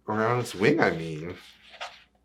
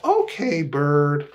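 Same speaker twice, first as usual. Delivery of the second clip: voiced cat; 3 semitones higher, 4 dB louder than usual. Cat agrees in story.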